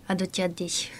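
soft, nasal, breathy imitation of a singer. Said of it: "何その鼻声で".

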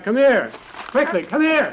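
calling out high and loud, come quick; sudden excited summons across the field; urgent call. Acted. Dowser calls them over urgently.

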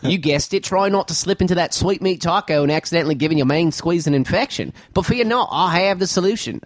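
hammed-up Aussie accent; Australian accent. Host reads the email in a mock Australian accent. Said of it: "doing the Aussie accent".

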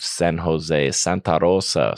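lightly Spanish-accented place names. Shown as a demonstration. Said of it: "see, accent".

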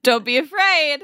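mock yelling. Mimicking the yelled reading back.

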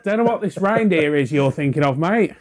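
a hammed-up Australian twang, mate; jokey fake Australian accent; bad Aussie accent. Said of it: "In my awful Aussie accent".

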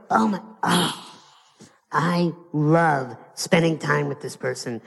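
imitated heartfelt fondness; adoring sigh. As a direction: sigh it out like someone smitten. Voices people delighted by company.

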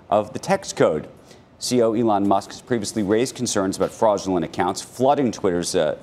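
brisk anchor news read. Acted. Reads news item on air.

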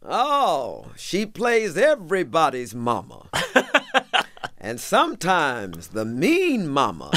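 a light hint of Obama, breaking into laughs; Obama impression. Quoting the president to the host, a light Obama voice. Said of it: "I'm gonna try to do him".

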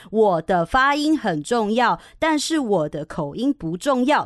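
slow, emphatic "发音" against slow, emphatic "口音"; teacher spacing out "很重要" and "不重要" for repetition; repeat-after-me model. Shown as a demonstration. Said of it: "跟我说一遍". (带读示范，放慢并强调“发音”和“口音”)

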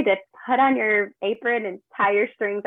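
put-on a touch of Southern accent on the phrase. Host's catchphrase repeated back in mild Southern accent. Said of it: "I said it in a Southern voice".

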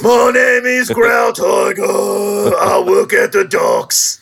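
loud, slow gruff Cockney cat; Growl Tiger. Retold or imitated. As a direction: bellow it like a dockside tough, Cockney. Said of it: "asking Ray Winstone to play a cat".

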